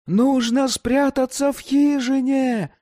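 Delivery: high urgent shout over the wind. A narrator's reading. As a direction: yell to be heard in a storm. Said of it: "крикнул он".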